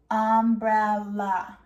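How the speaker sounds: "Umbrella" in three separate beats, um, brel, la; split into syllables. Shown as a demonstration. Teacher feels chin with children, "Umbrella" split in three. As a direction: break "Umbrella" slowly into its pieces. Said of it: "put our hand under our chin and feel".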